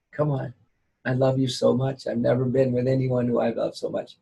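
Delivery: low, seductive tempter voice; sweet nothings. Acted. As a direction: lure them in, low and sugary. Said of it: "Flattery and gifts".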